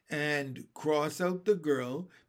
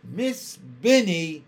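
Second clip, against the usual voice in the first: near tears; 10 dB louder, slower than usual. A narrator's reading. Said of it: "cried Susan on the verge of tears".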